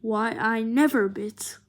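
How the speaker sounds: slow, loud Southern-belle huff; hammed-up offended Southern lady. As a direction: clutch the pearls and gasp it out. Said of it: "Dolphin did her whole".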